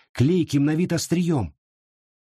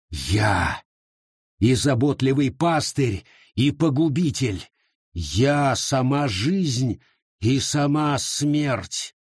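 shaman voice; slower than usual. Acted. Shaman declares himself, slow eerie voice.

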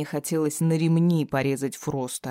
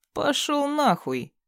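defiant captive; 11 semitones higher, slower than usual. Acted. Tied-up captive cursing his captor.

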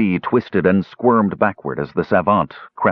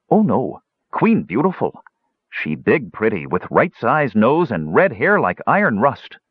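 high, eager little dwarf voice; a simple-minded gully dwarf, eager to please; higher, childlike gully dwarf chatter; 3 semitones higher than usual. Acted.

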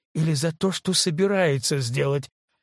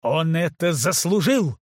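louder, higher sharp reply; sharp retort; 4 semitones higher, 4 dB louder than usual. Acted. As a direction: snap back in self-defence. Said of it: "резко ответил Элис".

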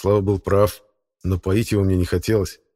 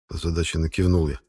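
usual speaking voice

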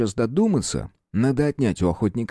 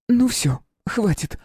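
sharp stop; 13 semitones higher, slower than usual. A narrator's reading. Princess stops kisses.

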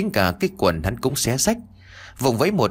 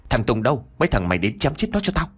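barked order; 3 semitones higher, faster than usual. Acted. Villain orders a killing.

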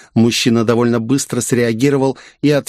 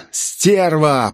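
growl; 5 semitones higher than usual. Acted. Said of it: "прорычал мужчина".

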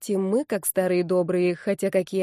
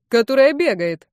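calling out; 4 semitones higher, 6 dB louder than usual. Acted. Classmate shouting from seats.

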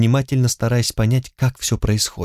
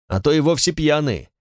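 contemptuous; 4 semitones higher than usual. Acted. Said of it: "сказал Шерлок с презрением".

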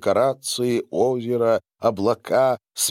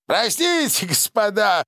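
high, light apologetic tone; apologetic host; 12 semitones higher than usual. A narrator's reading. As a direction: apologize with a nervous lilt. Граф извиняется перед гостями. (извиняющийся тон)

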